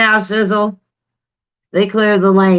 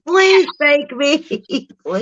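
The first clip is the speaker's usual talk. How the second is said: mock begging; 8 semitones higher than usual. Begging to be driven along.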